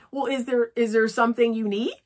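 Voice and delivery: light, gentle open question; gentle inviting question; the sweet way. Shown as a demonstration. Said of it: "Just say".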